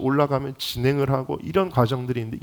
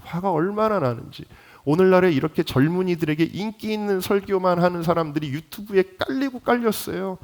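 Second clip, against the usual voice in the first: indignant, higher-pitched preaching; real indignation; 5 semitones higher than usual. Real, not acted. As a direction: let frustration push the pitch up and hold it there. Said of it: "화가 얼마나 나는지, 너무너무 화가 나는 거예요". (화가 나서 높아진 목소리)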